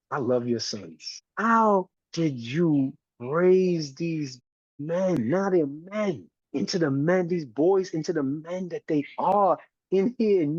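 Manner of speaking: put-on light Southern accent, some words drawn out slowly; a hint of Southern, slowly praising the mother; Southern lilt. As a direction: slip into a light Louisiana Southern sound. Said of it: "she still got that Southern thing in her".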